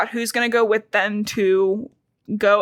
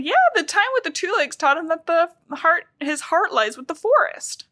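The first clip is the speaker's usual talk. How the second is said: raised, put-on heartfelt cat voice; earnest Fireheart; 7 semitones higher than usual. Retelling the book to her co-host, an earnest raised cat voice. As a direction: say it like a noble young warrior.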